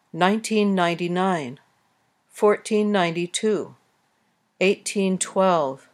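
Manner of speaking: Nineteen, fourteen, eighteen stressed on the first syllable, with some stress in ninety-nine, ninety-two, twelve; year stress. Shown as a demonstration. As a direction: read the years, leaning on the front of each teen. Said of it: "Years starting with teen numbers usually have some stress on the first syllable".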